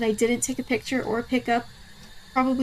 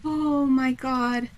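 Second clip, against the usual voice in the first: stunned; much slower than usual. Real, not acted. Relief after surviving the hunt.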